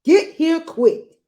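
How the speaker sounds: slow, urgent high shout. Acted. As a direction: call him over urgently. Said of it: "he shouted".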